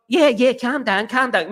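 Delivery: slow, sneering yeah yeah, calm down; mock dismissive pundit. Mocking pundits who brush off Amorim, in a slow sneer. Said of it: "people who've never managed football clubs".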